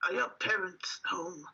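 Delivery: hushed whisper at the door; careful whispered question. Acted. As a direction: whisper it to the child. Johan asks the girl.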